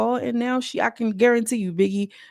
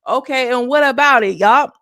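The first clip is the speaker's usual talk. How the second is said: laughing brag; 5 semitones higher, 7 dB louder than usual. Real, not acted. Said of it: "laughing brag to viewers".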